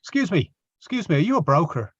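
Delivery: starship captain. Acted. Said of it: "he'll just say".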